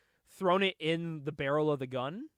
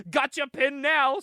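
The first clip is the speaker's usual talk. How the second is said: high mock yell; retold scream; 9 semitones higher, 7 dB louder, slower than usual. Retelling the hero's battle cry, a hammed-up high shout. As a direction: shout it up high like a comic hero. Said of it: "he screams at the top of his lungs".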